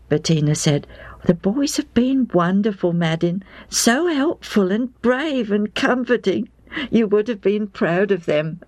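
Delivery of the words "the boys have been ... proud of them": higher, tender greeting of a relieved wife; wife overjoyed her husband is home; wife's voice. A narrator's reading. Wife praises the boys.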